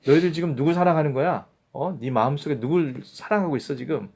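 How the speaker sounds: Jesus rebuking the crowd, half-acted. Jesus rebukes the Jews, mildly stern. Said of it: "그걸 지금 질책하고 있는 거예요".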